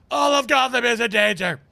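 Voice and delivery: alarmed cry. Real, not acted. Player alarmed at game.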